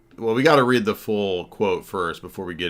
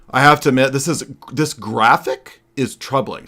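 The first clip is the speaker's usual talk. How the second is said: louder, higher pompous mocking read of his post; James White voice; 5 semitones higher, 6 dB louder than usual. Host mocking a critic's post, reading it in a pompous loud voice. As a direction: sneer out his words like a stuffy scholar. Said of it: "I'm gonna read it in the James White voice".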